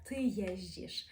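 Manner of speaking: «ти єздіш» slowly with a soft ждж; teacher shows the soft ждж; soft Polish sounds. Shown as a demonstration. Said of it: "але вже м'якіше говоримо".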